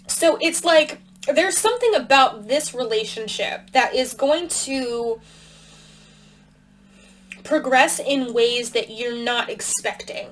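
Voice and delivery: talking around a cough drop; cough drop in mouth. Real, not acted. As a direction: mouth full with a lozenge. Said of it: "I have a cough drop in my mouth".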